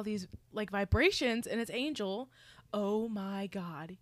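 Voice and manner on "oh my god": breathless, slow whispered oh my God; shocked whisper. Retold or imitated. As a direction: whisper it as if you can't believe the message. Retold shock on reading the text.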